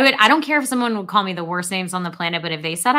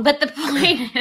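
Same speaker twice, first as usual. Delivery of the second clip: laughing; 5 semitones higher, slower than usual. Real, not acted. Laughing at cohost's hair joke.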